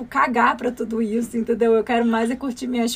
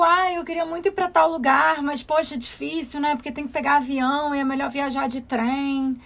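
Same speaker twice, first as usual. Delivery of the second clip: mocking coworkers; 3 semitones higher than usual. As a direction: sigh it out like a fussy colleague. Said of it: "e fica todo mundo tipo".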